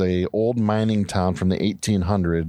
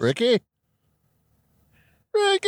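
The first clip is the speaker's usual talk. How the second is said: calling out; 13 semitones higher than usual. Real, not acted. Calling into phone.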